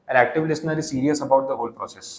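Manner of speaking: slow, deliberate reading of the slide; unhurried dictation pace. Shown as a demonstration. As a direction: read it word by word for notes. Reads slide text slowly.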